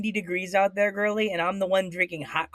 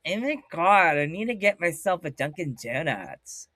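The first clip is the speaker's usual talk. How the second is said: badly mangled American accent; mock a Brit butchering a US accent; Shorty. Imitating British wrestler botching the American accent. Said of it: "banged up the new, the, the U S accent".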